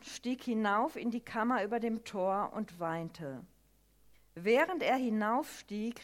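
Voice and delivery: solemn lectern reading of a grieving king; scripture reading. Acted. Reads Bible passage aloud.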